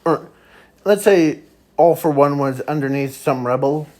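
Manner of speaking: ordinary delivery, nothing marked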